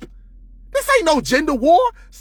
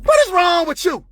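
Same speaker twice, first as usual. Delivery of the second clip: exasperated shout; 6 semitones higher than usual. Real, not acted. Heated rant, exasperated.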